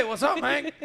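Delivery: a whisper that comes out loud; loud mock whisper. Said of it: "This is my whisper voice".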